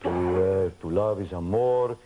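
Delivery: put-on lightly Spanish-accented scolding; teacher sliding from the lesson into scolding Conan, light Spanish accent. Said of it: "He'd be like".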